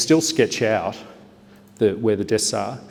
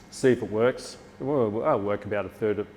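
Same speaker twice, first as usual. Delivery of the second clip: ordinary talk, nothing marked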